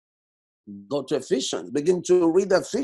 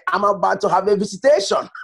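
laughing; 4 dB louder than usual. Real, not acted. Laugh heard on the line.

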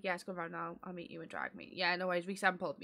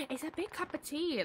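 laughing through the words, higher; 9 semitones higher than usual. Real, not acted. Streamer laughing to chat about his tea, giggling.

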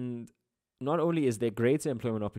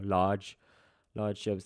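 Durban-accented LARGE, with the r dropped; 3 semitones lower, slower than usual. Real, not acted. Teacher correcting their own slip, Durban accent. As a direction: say "Large" the Durban way, open vowel, no American r. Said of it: "Durban accent coming through".

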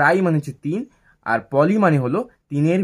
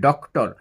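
"ডক্টর" with a short break between "ডক" and "টর"; broken into syllables; slower than usual. Shown as a demonstration. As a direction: say "ডক্টর" as two distinct beats. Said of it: "টর বলে একবার থামছি".

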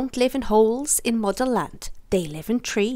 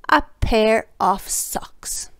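dramatic whisper; 5 dB louder, much slower than usual. A narrator's reading. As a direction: whisper the punchline, drawn out. Punchline reveal, whispered slowly.

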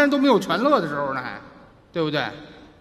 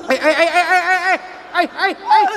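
loud, high mock bawling in bursts; fake wailing; 7 semitones higher, 5 dB louder than usual. Comic trying to prove he can bring on tears, fake wailing. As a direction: wail "ai, ai, ai" like hammed-up crying. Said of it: "他这哇哇哇哭不算啊".

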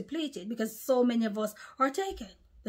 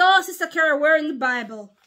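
higher, louder imagined objection; challenging viewer; 5 semitones higher, 9 dB louder than usual. Acted. Imagined viewer questioning the preacher, loud challenge. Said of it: "You might say".

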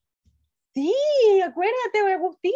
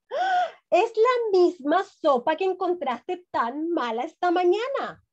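amused mother; 2 semitones higher than usual. Acted. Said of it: "La madre se rió y dijo".

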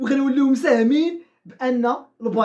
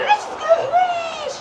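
laughing; slower than usual. Real, not acted. Right after the goal.

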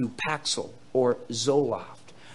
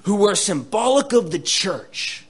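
mock misreading; 7 semitones higher, 6 dB louder than usual. Shown as a demonstration. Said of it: "No, it doesn't say that".

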